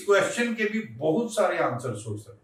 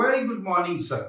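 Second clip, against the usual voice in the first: a little happiness at meeting them; mildly pleased, smiling reply; smiling greeting; much slower than usual. Shown as a demonstration. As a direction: greet with a slight smile. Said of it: "face पर smile लेकर आऊंगा".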